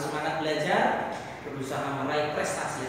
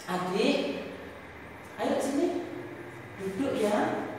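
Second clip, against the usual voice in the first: put-on older sibling; 6 semitones higher, slower than usual. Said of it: "Misalnya, kakak menasehati".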